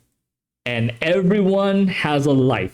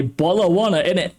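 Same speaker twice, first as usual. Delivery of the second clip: mock British accent; faster than usual. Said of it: "You choked again".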